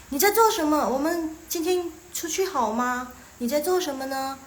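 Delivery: a hint of a friend proposing an outing; friend asking. Friend phoning to invite you out, lightly acted. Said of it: "teman kalian nanya".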